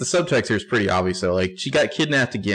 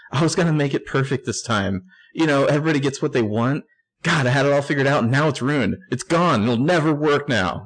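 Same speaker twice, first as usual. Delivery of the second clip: mock crushed Hannah; 5 semitones higher than usual. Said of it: "Very subtle".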